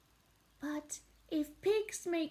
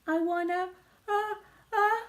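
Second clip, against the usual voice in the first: sneeze building; 3 semitones higher, 5 dB louder, faster than usual. Acted. Gerald about to sneeze.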